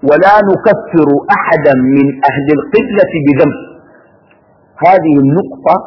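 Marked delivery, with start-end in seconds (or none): 0.1-3.6 reading aloud. Real, not acted. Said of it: "بصوت عالي".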